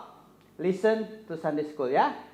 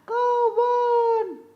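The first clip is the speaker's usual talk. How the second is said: much higher, slow cartoon puppet voice; 6 dB louder than usual. Puppet Kobon greeting the children, squeaky. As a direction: play a squeaky kid puppet.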